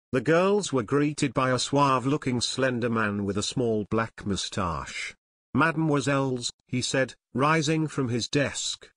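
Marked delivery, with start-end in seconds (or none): 5.5-6.5 lightly voiced French accent; a hint of a French manager. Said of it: "The manager spoke with a French accent".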